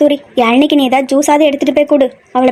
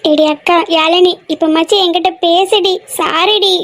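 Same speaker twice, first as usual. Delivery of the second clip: tearful plea to a sister; tearful pleading; 3 semitones higher, slower than usual. Acted. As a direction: beg her through tears. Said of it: "அழாத". (அழுகையோடு கெஞ்சல்)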